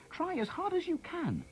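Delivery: high, slow, pleading call; boy urging Mr Brolly, high and slow; urging shout. Acted. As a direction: stretch every word out to push him. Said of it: "shouted Harry".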